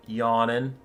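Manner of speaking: usual speaking voice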